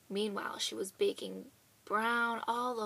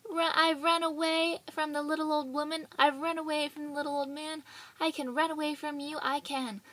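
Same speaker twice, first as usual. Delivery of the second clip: boasting laugh; 5 semitones higher, 4 dB louder than usual. Acted. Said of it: "laughed and said".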